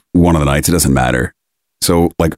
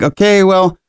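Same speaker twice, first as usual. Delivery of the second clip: incredulous inner voice; 9 semitones higher than usual. Retold or imitated. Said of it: "thinking to myself".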